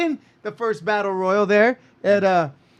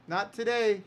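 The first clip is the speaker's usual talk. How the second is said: quiet; 9 dB quieter than usual. Retold or imitated. Promoter turns down a big arena, softly refusing "not today". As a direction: murmur "not today" gently. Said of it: "We'll be like".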